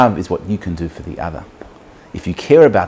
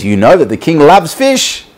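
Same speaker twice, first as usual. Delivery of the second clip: high, louder, thrilled guard; excited guard; 7 semitones higher, 5 dB louder than usual. Acted. Guard to fisherman about the king, excited. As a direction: let excitement lift the voice high. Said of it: "the guard is so excited".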